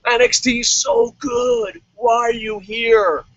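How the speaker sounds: loud, slowed bro call-out; yelling at the wrestler like a heckler; mock bro shout. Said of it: "a match that's like".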